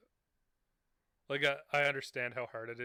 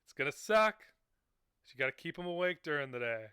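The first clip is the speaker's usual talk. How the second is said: put-on old lady advice voice; 2 semitones higher, 5 dB louder, faster than usual. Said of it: "They're like".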